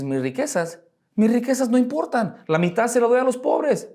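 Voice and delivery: voz más aguda, alegre y despreocupada; Saqueo desprendido. Retold or imitated. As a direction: suelta las riquezas sin pena, en tono alto. Saqueo renuncia a sus riquezas. (Saqueo dice a todos que sus riquezas no importan, tono agudo y ligero)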